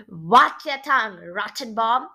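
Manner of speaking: loud opening, lifting on the name; mildly indignant warning; mock squeaked warning. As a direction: warn him off firmly. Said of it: "Grandpa Frankenstein squeaked".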